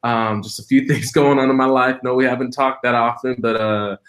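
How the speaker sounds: light playful imitation of calling dad; mock casual phone call. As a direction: drop it on him casually. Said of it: "I was like".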